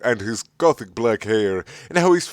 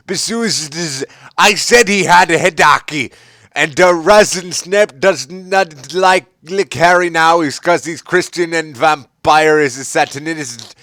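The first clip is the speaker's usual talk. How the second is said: mocking whiny author voice; 7 semitones higher, 6 dB louder than usual. Reading the author's note aloud, high whiny mockery. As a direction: ham up the defensive writer.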